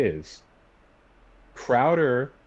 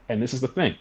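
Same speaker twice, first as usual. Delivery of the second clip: voice cracking; 4 semitones higher, faster than usual. Real, not acted. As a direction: voice breaking mid-sentence. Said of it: "my voice just went out there".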